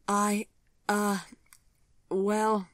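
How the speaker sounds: high, flustered stammer, caught out; stall, squirming for an answer. A narrator's reading. Vivian caught out about Daniel, flustered stammer. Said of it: "Vivian squirmed".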